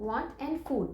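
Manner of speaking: word by word. Shown as a demonstration. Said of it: "three segments हैं".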